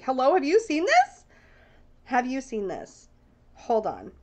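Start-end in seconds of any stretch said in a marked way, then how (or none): 0.0-1.2 higher, eager rising question; excited text voice. Retold or imitated. Texting her bestie about the deck, eager rising call. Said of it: "texting one of my besties right now to be like". 2.0-3.1 slower, quieter, pointed repeat; softer insistent repeat. Retold or imitated. Texting her bestie, slower quieter insistent repeat. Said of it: "texting one of my besties right now to be like".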